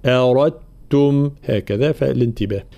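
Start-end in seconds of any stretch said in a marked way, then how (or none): 0.1-1.3 slow أردتم as "arattum" with a thick ra; heavy ra, doubled ta. Shown as a demonstration. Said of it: "را مفخمة بعدها تاء مشددة". (أردتم براء مفخمة وتاء مشددة)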